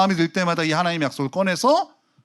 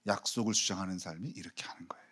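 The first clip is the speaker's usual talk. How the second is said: hushed whisper; 7 semitones lower, 13 dB quieter than usual. Real, not acted. Preacher whispering the point to his congregation. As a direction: lean in and breathe it. Sudden hushed aside in sermon.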